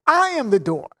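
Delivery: "I am the door" with I stressed; emphatic I AM. Shown as a demonstration. Preacher repeating Jesus' claim, emphatic. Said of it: "He's saying it again emphatically".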